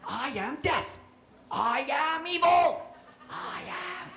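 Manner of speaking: slow spooky ghost boast; grim reaper voice. Pretend. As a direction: boom out your dark power. Playing ghost.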